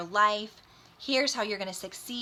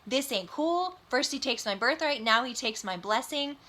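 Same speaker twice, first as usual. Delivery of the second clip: higher-pitched, mildly indignant complaint; mock freak-out; 3 semitones higher than usual. Esau complains about his brother taking his blessing, mildly freaking out. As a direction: protest like a wronged brother, lightly acted. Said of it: "Then Esau freaks out, like, freaks out".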